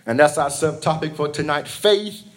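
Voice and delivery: rhythmic preacher cadence; fervent church sermon delivery; sermon preaching. Acted. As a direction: preach it to the congregation. Preaching at full force.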